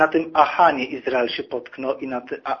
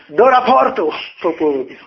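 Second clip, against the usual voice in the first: high, loud military command; acted-out curt command; officer's stern order; 4 semitones higher, 5 dB louder than usual. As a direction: imitate a superior ordering a soldier to report. Officer orders him to report.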